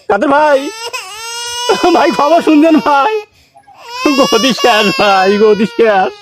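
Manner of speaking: slow, sobbing lament; hammed-up tearful phone lament; mock crying. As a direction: wail the loss of power to a friend. Phoning friend, lamenting lost power.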